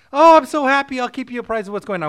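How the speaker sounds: high, loud thrilled wife; ecstatic wife. Retold or imitated. Wife hanging up with her sister, high and thrilled. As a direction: burst with joy on the phone. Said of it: "the wife immediately gets ecstatic".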